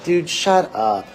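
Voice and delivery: loud, high, drawn-out dismissal; exasperated retort. Real, not acted. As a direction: tell them off slowly, punching it loud. Snapping back at the quoted mayor.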